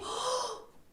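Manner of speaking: sharp, high gasp of shock; breathless gasp. Acted. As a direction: suck in air as if suffocating. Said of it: "막히더라고요". (숨이 턱 막힌 듯 헉)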